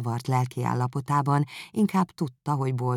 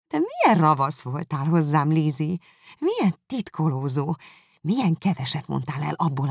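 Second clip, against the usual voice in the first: lightly voiced playful sister; mock scolding; teasing reproach; 2 semitones higher than usual.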